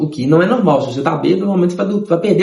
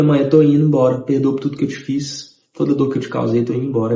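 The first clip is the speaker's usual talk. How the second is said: mais baixo e suave, despedindo-se; despedida sofrida; 4 semitones lower than usual. Retold or imitated. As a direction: pedir perdão à mãe como se fosse morrer. Despedida achando que vai morrer. (filho se despedindo da mãe, sofrido)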